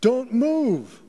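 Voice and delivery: loud, high-pitched police shout; yelled command. Retold or imitated. Police officer yelling at a man in a jewelry store, very loud. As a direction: yell it like an order to freeze. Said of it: "yelling in a very loud voice".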